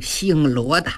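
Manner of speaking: furious storyteller's war cry; roaring challenge. Acted. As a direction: bellow it at the enemy, speeding up at the end. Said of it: "单雄信大叫一声".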